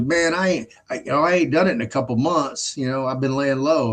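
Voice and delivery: casual friend. Retold or imitated. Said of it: "He goes, he goes".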